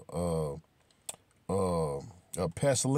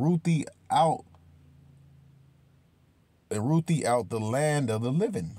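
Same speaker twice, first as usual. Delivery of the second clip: scripture reading. Acted. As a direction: intone the Psalm like from the pulpit. Reads Psalm aloud.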